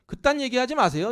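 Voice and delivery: high, loud, indignant snap; indignant retort. Retold or imitated. Preacher paraphrasing Peter rebuking Jesus, high and loud. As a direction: throw it back at him, offended. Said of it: "이 얘기예요".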